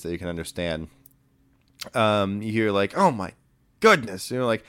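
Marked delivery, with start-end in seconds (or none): 3.0-4.3 amazed sailor's excited cry, falling off; excited exclamation. Acted. Sailors chattering about the prodigy, excited. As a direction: exclaim it like an impressed onlooker. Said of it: "excited chatter".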